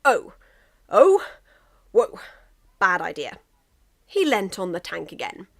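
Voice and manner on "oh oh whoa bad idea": dizzy surprise. Acted. Drunk England dizzy, staggering.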